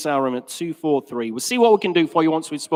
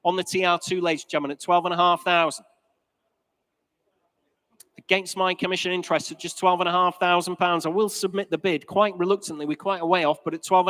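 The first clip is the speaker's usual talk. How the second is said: fine art auctioneer. Real, not acted. Auctioneer calling bids.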